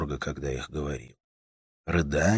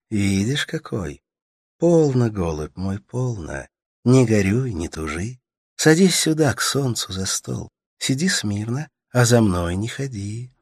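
put-on higher, tender young woman soothing a sick man; Katerina's voice; 5 semitones higher, 5 dB louder than usual. A narrator's reading. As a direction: coax him gently, voice lifted high. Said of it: "Katerina comforts the sick man".

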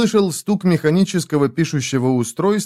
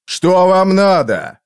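sharp, loud, higher demand; whip-crack snap; 6 semitones higher, 5 dB louder, slower than usual. Acted. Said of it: "прозвучал, как удар бича".

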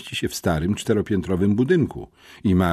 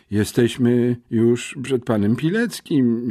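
groaning; 4 semitones higher, slower than usual. A narrator's reading. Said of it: "jęknąłem".

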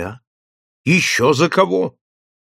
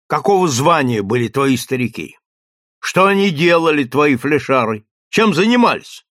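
usual speaking voice

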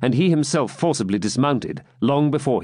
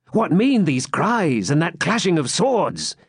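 eager swineherd, slow and higher; 7 semitones higher, slower than usual. A narrator's reading. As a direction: press for news eagerly and slowly. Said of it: "said he eagerly".

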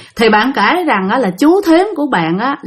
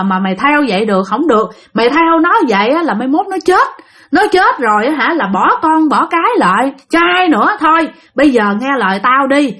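scolding monk; 4 semitones higher than usual. Retold or imitated. Monk scolding the ghost again.

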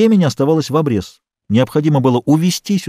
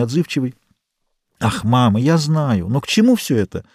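usual speaking voice

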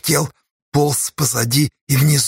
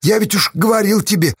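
heated yelling; 7 semitones higher than usual. Acted. Quarrel on cliff.

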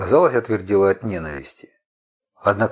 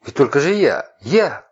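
furious rant; 8 semitones higher than usual. Acted. Furious rant about betrayal.

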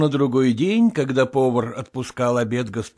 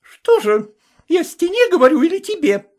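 high, louder angry shout; 5 dB louder than usual. Acted. Vasilisa shouting at the cook, angry. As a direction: yell at him. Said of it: "закричала она".

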